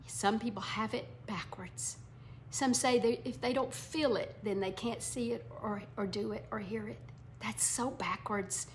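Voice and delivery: hushed aside. Real, not acted. Confiding aside to the congregation.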